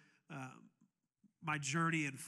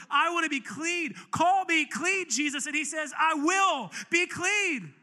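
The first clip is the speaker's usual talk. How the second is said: louder, higher rising pulpit cry; impassioned preacher calling the congregation; full-force preaching; 8 semitones higher, 10 dB louder than usual. Acted. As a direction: build to a roaring altar call.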